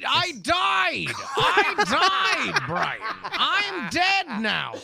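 cracking up while talking; howling with laughter; laughing hard. Real, not acted. Laughing at the news.

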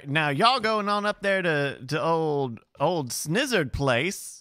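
folksy New England drawl, hammed up; mock New England accent. Bryce hamming a New England local at the toll booth.

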